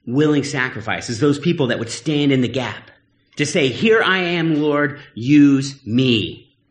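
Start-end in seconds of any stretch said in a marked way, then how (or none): 3.7-6.6 drawn-out, sincere plea to God; slow, earnest offering. Acted. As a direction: offer yourself slowly and sincerely. Voicing a willing volunteer.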